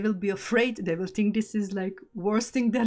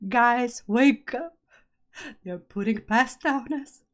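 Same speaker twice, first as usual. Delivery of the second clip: louder, higher mock yell; raised-voice imitation of a panicked warning; retold scream; 4 semitones higher, 7 dB louder than usual. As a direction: call out in alarm, re-enacting a scream. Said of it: "I started screaming".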